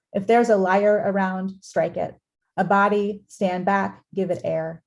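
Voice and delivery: measured, steady poem reading; poetry reading. Acted. Poet reads Maxine Kumin's poem to the audience, measured. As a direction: let each line land with weight.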